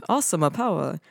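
English words with Japanese-style vowels and endings; Japanese-accented English quote; thick Japanese accent. Retold or imitated. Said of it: "she's putting on a, a thick accent".

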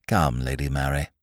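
low, soft, gently chiding; encouraging reprimand. A narrator's reading. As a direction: coax as to an over-imaginative child. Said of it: "he said encouragingly, but with an accent of reprimand".

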